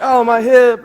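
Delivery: high, loud mock old-lady wail; old lady complaining. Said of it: "then she's like".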